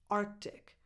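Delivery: "Arctic" with a barely released first C; hint at the K in Arctic, almost a glottal stop; half-pronounced C. Shown as a demonstration. Teacher suggesting somewhere in the middle, half-pronounced C. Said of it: "somewhere in the middle".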